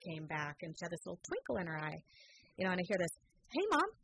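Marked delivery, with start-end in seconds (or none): 3.5-3.9 put-on higher, brighter teen call of Mom; daughter calling out. Mother retelling her recovered daughter's first words. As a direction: toss it off like a teen suddenly back to herself.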